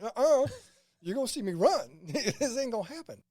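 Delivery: mock firm refusal. Refusing picture, laughing.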